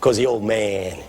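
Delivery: put-on low, hushed, unhurried old-timer; quiet, deep confidence of a veteran preacher, imitated; old pastor. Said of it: "my pastor squeezed my knee".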